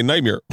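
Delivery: "nightmare" as night-meer; altered vowel in nightmare. Shown as a demonstration. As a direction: end "nightmare" on a meer sound. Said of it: "And I say".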